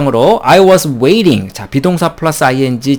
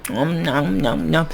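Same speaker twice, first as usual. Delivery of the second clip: imitated munching; 9 dB quieter, slower than usual. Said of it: "아무 말 하지 않고 그냥".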